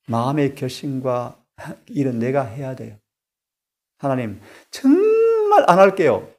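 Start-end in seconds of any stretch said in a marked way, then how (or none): 4.0-6.3 pleading vow. Pretend. Acted vow to God.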